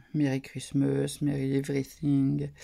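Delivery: English read with a French accent; real French-accented English. Real, not acted. Reads English card messages to viewers, French accent. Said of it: "avec mon accent pourri".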